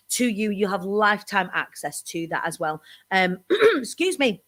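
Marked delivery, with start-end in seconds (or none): 3.1-4.4 quick throat clear before speaking. Real, not acted. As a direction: clear the throat, then excuse yourself. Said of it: "frog in my throat".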